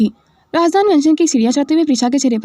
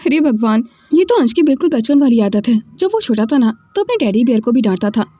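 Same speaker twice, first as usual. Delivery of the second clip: ordinary delivery, nothing marked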